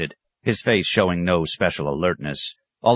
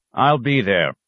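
higher, louder sharp reply; 6 semitones higher, 4 dB louder than usual. A narrator's reading. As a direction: snap it back, offended. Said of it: "the scholar said sharply".

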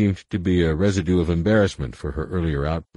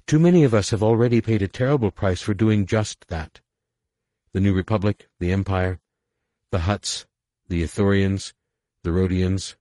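raised, urgent plea; urgent pleading; 3 semitones higher, 3 dB louder than usual. Acted. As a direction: press the point hard.

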